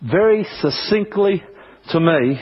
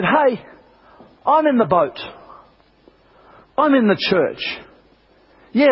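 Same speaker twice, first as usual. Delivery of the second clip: mildly upset, insistent rebuke in a higher voice; Jesus, a little upset; 4 semitones higher than usual. Acted. Jesus chiding his disciples in the boat during the storm, mildly upset. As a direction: reassure firmly, pitched up, as if a bit let down. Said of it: "Jesus got a little bit upset with".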